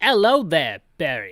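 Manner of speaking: put-on loud British accent, radio-style voice. Playing through a game, the speaker voices a call from HQ: HQ in British voice. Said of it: "my British voice".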